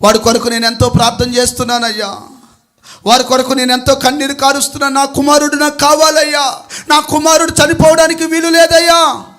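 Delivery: acted mother's building plea; pleading mother. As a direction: plead for a son's life, gathering force. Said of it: "తల్లి అంటుందయ్యా".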